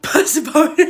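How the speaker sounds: Persephone said PER-seh-phone, high and loud; hammed-up per-se-phone; wrong pronunciation again. Shown as a demonstration. Laughing at her old Persephone in front of viewers, mock mispronunciation. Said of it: "The way I used to say Persephone".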